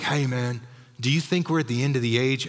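lightly imitated Southern accent, quick at the end. Congregant asks pastor about the end times, light Southern accent. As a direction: put on a hint of a Southern accent. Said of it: "that was in a Southern accent".

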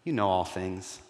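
mildly pained, softening confession; understated, wounded plea trailing down; tearful sigh. Acted. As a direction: sigh it out, gently hurt and sinking. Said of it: "a sigh in his, in his voice".

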